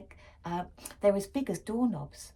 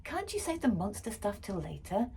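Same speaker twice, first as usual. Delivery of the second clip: dad complaining; 3 semitones higher, 4 dB louder than usual. Acted. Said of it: "Dad complained".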